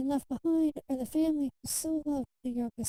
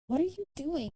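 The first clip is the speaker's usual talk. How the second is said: a touch of a doctor's shout; lightly raised, startled question; mild mock shout; 3 semitones higher than usual. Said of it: "he shouts at Kai".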